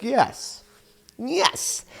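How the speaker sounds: very high, squeezed little cheer; mock self-satisfied receptionist. Receptionist after refusing to transfer a caller, mock triumph. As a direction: imitate a receptionist privately congratulating herself. Voices receptionist pleased with herself.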